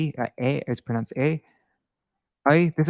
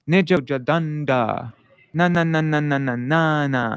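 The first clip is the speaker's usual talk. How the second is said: ne jo ja dan da chanted with held long syllables, louder; long syllable rhythm; 2 semitones higher, 3 dB louder than usual. Shown as a demonstration. Teacher demonstrating the long-syllable rhythm. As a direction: sing out the steady long beats. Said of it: "we elongate that when we pronounce it".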